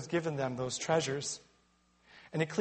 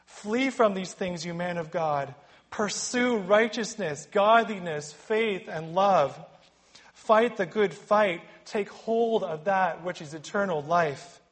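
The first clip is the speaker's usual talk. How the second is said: exhortation; 3 semitones higher than usual. Retold or imitated. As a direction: urge them on like a commander. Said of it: "As Paul exhorts Timothy".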